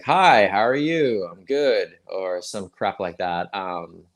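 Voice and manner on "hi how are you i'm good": lightly put-on standard American accent. Shown as a demonstration. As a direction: demo a generic American accent. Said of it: "standard U S accent. It'll be like".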